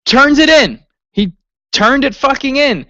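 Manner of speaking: rising furious yell, voice cracking up high; outraged shout. Real, not acted. Fan ranting to his co-host about the cash-in, outraged high yell. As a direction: pitch jumps high as he rants in disbelief.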